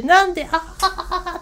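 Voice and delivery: high, slow burst of laughter; retold belly laugh at the uncle's story; laughing hard. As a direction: laugh helplessly through the words. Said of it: "腹抱えて笑って".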